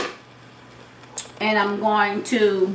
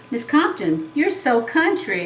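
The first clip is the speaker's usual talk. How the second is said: lightly voiced students, pitched higher; mimicking teasing kids; 5 semitones higher than usual. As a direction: tease the teacher like her pupils. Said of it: "I've been told by the kids that I taught".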